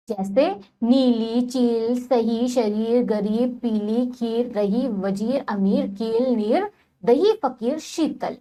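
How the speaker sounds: each word said slowly and clearly, long ई in नीली and चील drawn out; careful pronunciation. Shown as a demonstration. Teacher modelling long ई words for children, slow. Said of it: "शब्दों का उच्चारण कीजिए".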